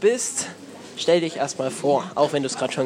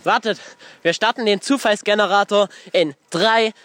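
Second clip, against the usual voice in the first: excited announcing; 7 semitones higher, 3 dB louder than usual. Real, not acted. Counting down, announcing loudly.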